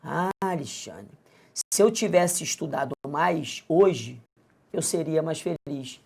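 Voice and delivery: a student lamenting to Alexandre about not studying; wistful student. Pretend. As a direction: play a student full of mild regret. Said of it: "Mais ou menos assim".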